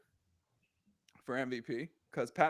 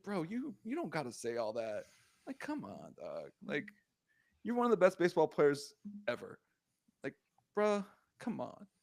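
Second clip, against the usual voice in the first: pleading quote; 2 semitones lower, 6 dB quieter than usual. Retold or imitated. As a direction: let him down gently, quietly. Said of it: "and I was just like".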